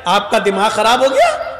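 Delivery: amused mock disbelief, lightly done; retold with a touch of laughter; laughing retort. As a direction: answer as if laughing it off. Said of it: "ہنس کے کہتا ہے".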